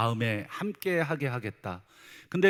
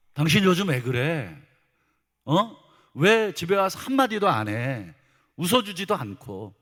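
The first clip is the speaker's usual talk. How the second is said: mock scolding; 3 semitones higher, 4 dB louder than usual. Spouse complaining of silence at home, acted scolding. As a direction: take your spouse to task, half in earnest. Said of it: "막 이렇게 책망을 하면".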